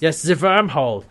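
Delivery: light mock Austrian German accent; Harvey. Harvey showing John the wormhole, light German accent. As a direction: say it with a touch of fake German. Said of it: "like, Austrian German accent".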